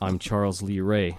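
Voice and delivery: understated creepy announcement; very low voice. Retold or imitated. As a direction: imitate mom posing as a killer doll, a touch low and soft. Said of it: "in a very low voice".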